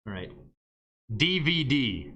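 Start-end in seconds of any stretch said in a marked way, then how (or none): 1.1-2.1 both D letters in "D V D" stressed; stress on D's. Shown as a demonstration. Teacher showing where emphasis falls, stressed D's. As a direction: punch each D in "D V D". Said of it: "The emphasis is here and here".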